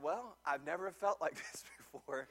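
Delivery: son's words broken by a laugh. Retold or imitated. Pastor quoting his son on the coaster, laughing. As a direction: let a laugh slip in mid-line.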